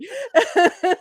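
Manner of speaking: high laughing blurt. Real, not acted. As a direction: let the word crack into laughter. Laughing at her own term.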